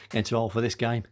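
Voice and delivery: winded, with a puff and a laugh; catching breath, laughing at yourself. Real, not acted. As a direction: puff it out after real exertion. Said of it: "Out of breath".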